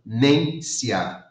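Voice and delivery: ordinary talk, nothing marked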